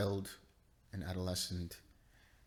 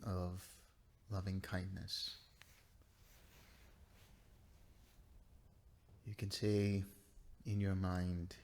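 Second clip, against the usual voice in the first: guided meditation; 5 dB quieter than usual. Real, not acted. Teacher guiding students to relax and bring up loving kindness, guided meditation. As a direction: ease each short phrase out gently, leaving space to breathe.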